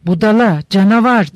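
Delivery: angry shout. Acted. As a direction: spit the insults at her husband in rage. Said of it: "öfkeyle ... diye bağırdı". (öfkeyle bağırarak)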